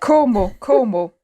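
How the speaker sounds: mock West Country place name; Cornish accent. Shown as a demonstration. Friend offering the next accent, Cornish. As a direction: say it with a Cornish burr. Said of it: "Oh, a Cornish accent".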